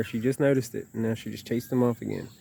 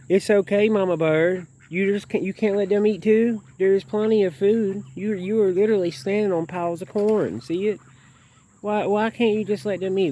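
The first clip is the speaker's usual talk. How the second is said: high, louder, pleading voice; coaxing pet talk; 8 semitones higher, 3 dB louder than usual. Real, not acted. Begging the mother goose to let others eat, high and coaxing. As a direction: coax the bird to share, half scolding.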